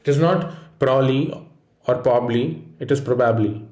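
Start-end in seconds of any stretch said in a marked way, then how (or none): 0.8-2.6 "probably" clipped to PROB-lee; "probably" with a syllable dropped; wrong probably. Shown as a demonstration. Teacher showing students the wrong way, clipped "probably". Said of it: "the ob and the ab". 3.0-3.7 "probably" as PROB-ab-lee, full; "probably" with every syllable; right probably. Shown as a demonstration. Teacher showing students the right way, full "probably". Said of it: "pronounce the whole word".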